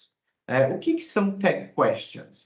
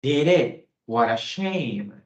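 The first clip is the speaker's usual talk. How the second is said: sympathetic surprise; much slower than usual. Shown as a demonstration.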